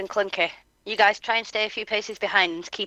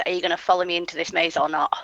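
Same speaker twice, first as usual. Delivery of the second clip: Hayes's voice; faster than usual. Acted. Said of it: "In Hayes's voice".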